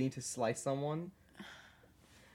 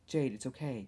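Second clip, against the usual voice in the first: normal talking voice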